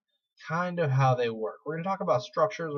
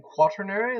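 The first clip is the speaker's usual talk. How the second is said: quaternary said in a half-hearted Spanish accent, the R swallowed, pitched higher and louder; quaternary with a botched Spanish accent, like quattro; failed Spanish accent; 7 semitones higher, 5 dB louder than usual. Shown as a demonstration. Teacher linking quaternary to quattro tries a Spanish accent. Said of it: "tried to put an accent on and completely failed".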